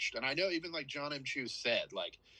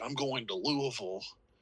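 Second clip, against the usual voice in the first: mocking, deliberately bad fake American accent. Imitating a British actor's bad American accent in Elizabethtown: imitating a bad American accent. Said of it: "we don't all sound like that".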